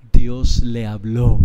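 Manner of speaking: mocking scoff. Mocking neighbor's scoffing quote.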